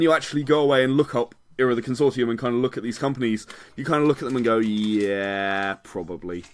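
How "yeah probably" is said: low, soft, reluctant concession; grudging agreement. Acted. Listener admitting the paranoid host's theories, grudging agreement. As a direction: concede it quietly, half under your breath. Imagined reluctant verdict after looking.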